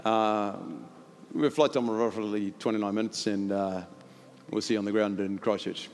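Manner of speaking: lightly voiced airline pilot; low, understated cabin announcement with pauses. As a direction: imitate a routine pilot update, filled with hesitations. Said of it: "the pilot comes on and goes".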